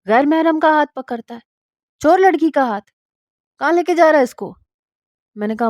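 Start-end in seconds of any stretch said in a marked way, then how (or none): 0.0-4.5 scolding mother. Acted. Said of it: "تو میری ماں کہنے لگی".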